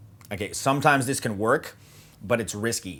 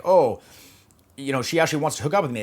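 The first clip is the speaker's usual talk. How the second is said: mock naive eagerness; 5 semitones higher, 4 dB louder, faster than usual. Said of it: "they might think like".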